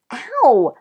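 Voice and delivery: high, loud yelp; yelling in pain. Acted. Patrick still clutching his stung cheek, yelling in pain. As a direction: cry out sharply. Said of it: "Patrick kept yelling".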